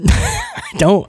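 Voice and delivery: squeaky high laughing repeat; real giggling insistence. Real, not acted. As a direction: break into a laugh on it.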